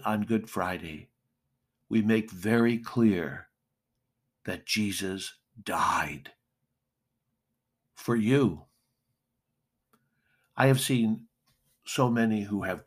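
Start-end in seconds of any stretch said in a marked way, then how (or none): 4.4-8.6 slow hushed whisper; slow, breathy whisper of grief. Real, not acted. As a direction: let the words fall to a whisper. Preacher drops to a hush.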